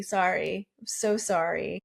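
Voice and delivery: ordinary talk, nothing marked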